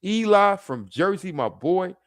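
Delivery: slow, high, hyped hello; hyped shout-out. Real, not acted.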